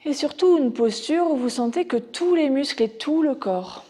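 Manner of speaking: measured Yoga Nidra guidance with long pauses; guided relaxation. Acted. Teacher guiding students into Yoga Nidra, measured meditation voice.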